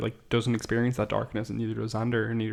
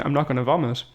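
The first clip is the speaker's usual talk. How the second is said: lightly mimicked through-the-teeth aside; talking through teeth; 3 semitones higher than usual. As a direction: imitate a muffled mutter through the teeth. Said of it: "potentially talking through her teeth".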